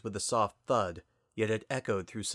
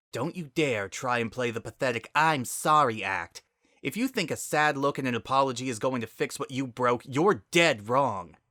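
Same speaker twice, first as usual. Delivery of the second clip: angry warning; 4 semitones higher, 3 dB louder than usual. Acted. Spitfire growls at Sunset.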